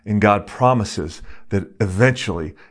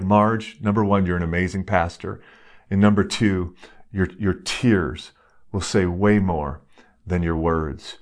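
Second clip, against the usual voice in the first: gentle reassurance; 3 semitones lower than usual. Retold or imitated. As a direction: ease the words down as if comforting a friend. Pastor comforting tearful minister.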